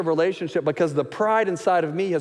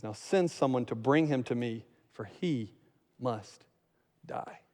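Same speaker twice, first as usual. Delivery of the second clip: much softer, fading to near silence on die; ominous quiet; 6 semitones lower, 9 dB quieter, slower than usual. Acted. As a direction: let it sink into a grim hush. Saul orders David's death.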